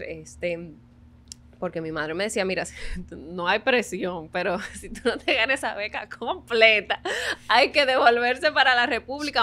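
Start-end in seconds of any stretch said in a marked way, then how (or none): 2.5-9.4 mock warning through laughter. Madre citada, presión con risa.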